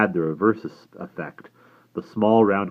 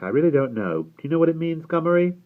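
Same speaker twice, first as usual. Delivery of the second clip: taken aback; 11 semitones higher, 5 dB louder than usual. A narrator's reading. Simon asking his great-uncle what it means, taken aback. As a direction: pitch climbing high into a puzzled question. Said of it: "taken aback".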